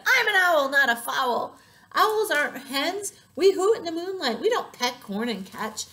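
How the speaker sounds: loud, high, indignant owl; very cross. A narrator's reading. Owl fed up with silly hens, loud cross protest. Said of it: "he got very angry".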